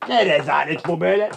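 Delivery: contained outrage before the outburst; indignant complaint. Acted. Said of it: "lütfen bağırmayın".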